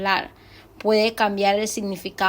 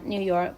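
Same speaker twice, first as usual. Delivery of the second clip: NEW YORK dipping a little; falling intonation. Shown as a demonstration. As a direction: let YORK sink slightly at the end. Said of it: "baja un poquito".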